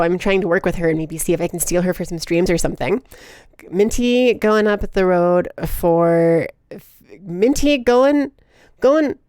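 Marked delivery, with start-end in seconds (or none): 3.7-9.2 put-on drawn-out stab at a British accent. Reading a chat message aloud, tentative British accent. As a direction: feel out a British accent, slowly. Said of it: "what accent is this?".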